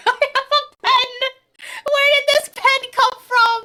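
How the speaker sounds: high, loud laughing surprise; delighted astonishment; surprised. Real, not acted. Surprised discovery of a pen.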